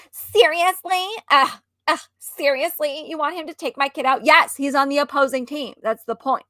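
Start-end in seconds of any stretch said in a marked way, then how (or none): 0.1-4.2 indignant mom. Retold or imitated.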